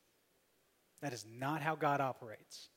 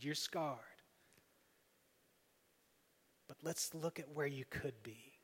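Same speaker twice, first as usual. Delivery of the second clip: gentle encouraging voice. Acted. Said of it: "And conviction says".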